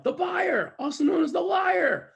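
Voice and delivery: loud, high-pitched shout of an audience; imitated crowd yell. Audience yelling back the answer, shouted. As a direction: yell the answer like a whole room. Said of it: "And they yell".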